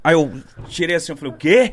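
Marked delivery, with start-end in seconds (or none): 1.3-1.7 raised, mock-startled question; imitated shocked "what?". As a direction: act out a sudden double take. Retold startled reaction in bed.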